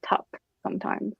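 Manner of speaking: "tup" said softly with an uh vowel for his name; Kiwi pronunciation. Shown as a demonstration. Explaining how he says his own name, soft Kiwi "tup". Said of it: "even my name, Tip, I say, like".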